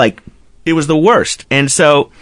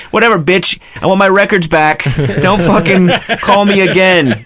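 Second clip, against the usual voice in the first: 1 mock tell-off; 5 semitones higher than usual. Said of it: "I'm like".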